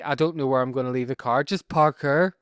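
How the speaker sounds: Northern Irish lilt, rising on parkour; Northern Irish pun. Pretend. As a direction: land the pun "park car" in a Northern Irish accent. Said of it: "It's like".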